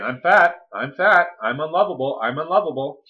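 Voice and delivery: mock inner critic on a loop; insistent self-criticism. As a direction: hammer out the self-blame in repeats. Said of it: "the conscious mind is saying".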